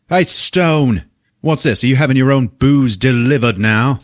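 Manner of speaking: mock holler at a colleague; calling across room. Detective to Stone across the squad room, calling out. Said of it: "yells out from across the squad room".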